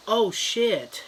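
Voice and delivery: sudden surprised gasp of a curse; startled. Acted. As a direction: jump at the sight of it. Startled kid sees clown.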